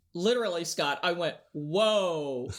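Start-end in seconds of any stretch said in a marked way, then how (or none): 1.5-2.5 mock-alarmed protest, pitch jumping higher; retold protest. Cadet begging off airborne school to her professor, comic protest. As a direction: playfully plead your way out, stretching the first words.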